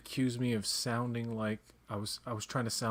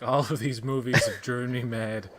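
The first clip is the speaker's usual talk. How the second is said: imitated film character; 6 dB louder than usual. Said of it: "She's like".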